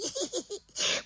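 high cackling giggle; a naughty little witch's cackle. Acted. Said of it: "Čarodějnice se pochechtávala". (hihňání malé čarodějnice)

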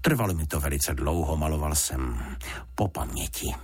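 understated, modest father. Acted. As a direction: say it with mild humility. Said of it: "řekl pan Fousek skromně". (skromně, nenápadně)

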